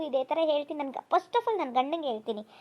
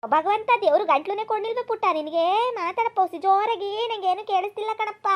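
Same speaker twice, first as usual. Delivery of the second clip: raised scolding; 3 semitones higher, 3 dB louder than usual. Acted. Mother scolds son to speak louder.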